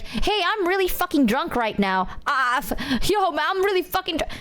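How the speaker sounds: imitated drunk friend. Junie meeting Michi while drunk, imitated drunk. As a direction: play a friend announcing she is drunk. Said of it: "And Junie's like".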